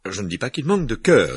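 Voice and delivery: grudging, high-pitched witch; reluctant McGonagall. A narrator's reading. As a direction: concede it unwillingly. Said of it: "avec réticence".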